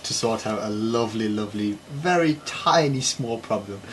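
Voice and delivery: dry sarcastic understatement; deadpan irony, calling it tiny. Real, not acted. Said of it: "show of zero sarcasm".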